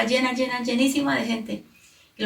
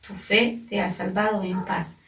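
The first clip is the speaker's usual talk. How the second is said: gentle blessing; 2 semitones lower than usual. Acted. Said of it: "pero Jesús le dijo a la mujer".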